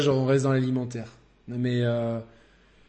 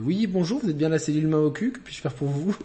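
phone receptionist voice; 3 semitones higher than usual. Pretend. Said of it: "voilà, la cellule".

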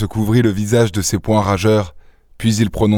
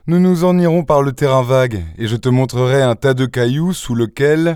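raised, teasing threat; hint at what you know, toying with him; lightly voiced taunting adventurer; 4 semitones higher than usual. Daspry threatening to show Varin the pile of stones, taunting.

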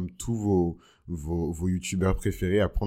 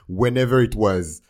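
slow loud dismissive English; sassy drawn-out aside; 8 dB louder than usual. Pretend. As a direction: drag it out sassily.

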